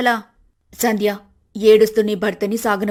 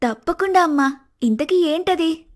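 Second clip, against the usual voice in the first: eager; 5 semitones higher than usual. Acted. Daughter eager for the plan.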